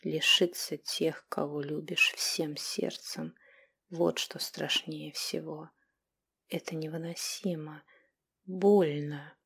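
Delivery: slow, soft near-whisper; barely audible. A narrator's reading. Grieving brother adding something barely audible. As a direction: force the words out barely heard. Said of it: "чуть слышно добавил".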